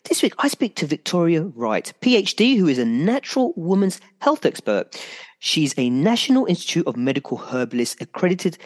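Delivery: upbeat radio host intro. Acted. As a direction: announce the show like a DJ. Radio host reads show intro.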